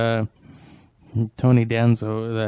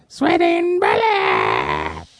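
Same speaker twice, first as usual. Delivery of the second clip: goofy deep voice; 9 semitones lower, much slower than usual. Pretend. Repeating phrase in funny voice.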